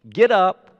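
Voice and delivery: firm, forceful call to rise; commanding. Retold or imitated. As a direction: order a man to his feet. Jesus commanding the paralyzed man.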